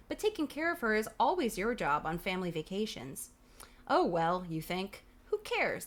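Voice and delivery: lively read-aloud with swooping emphasis; animated storybook reading; story narration. A narrator's reading. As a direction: read it out like a children's adventure book. Reads the book aloud.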